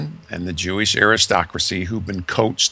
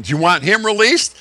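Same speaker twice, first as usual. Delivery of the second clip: Pilate offering the crowd; 11 semitones higher, 4 dB louder than usual. Retold or imitated.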